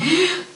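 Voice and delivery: high, sharp gasp with a laugh; a quick thrilled intake of breath; delighted gasp. Retold or imitated. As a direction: gasp with surprised joy. Seeing the photo of the door.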